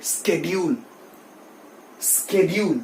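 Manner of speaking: "शेड्यूल" as SKED-yool; professional schedule. Shown as a demonstration. Teacher repeats it for students, sk onset. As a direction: begin "शेड्यूल" with sk. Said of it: "आज से इसको शेड्यूल बोलिए".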